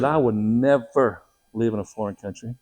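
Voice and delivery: retold firm refusal, punching NEVER; mock-adamant wife; emphatic refusal. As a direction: dig in on never, imitating her. Retelling wife's flat refusal.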